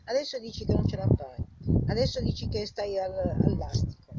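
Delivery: angry yelling. Acted. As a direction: yell it at them in fury. Angry rant peaks in yelling.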